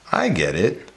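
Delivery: musing realisation after a pause; in thought. Shown as a demonstration. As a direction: say it as a dawning thought. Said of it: "in thought".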